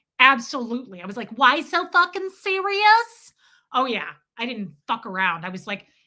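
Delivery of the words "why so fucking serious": mocking, high, loud, slow Brooklyn accent. Retelling how they mocked and mimicked a guy from brooklyn: mocking brooklyn accent. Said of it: "mocked and mimicked that guy".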